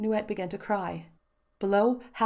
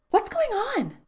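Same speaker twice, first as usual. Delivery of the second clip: high, alarmed question; frightened child; 6 dB louder, slower than usual. A narrator's reading. Daughter asks her father amid gunfire, frightened. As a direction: ask in sudden fear.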